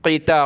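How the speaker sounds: क़िता with a thick back-of-mouth "q"; heavy qaf. Shown as a demonstration. Teacher correcting recitation, heavy qaf in क़िता. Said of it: "क़ाफ़ को मोटा करें".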